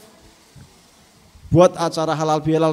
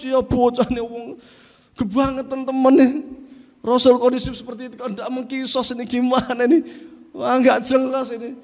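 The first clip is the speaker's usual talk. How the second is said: higher, indignant grumbling; indignant crowd; 4 semitones higher than usual. Acted. Companions grumbling about the man, indignant. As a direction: scold the rude man in disbelief.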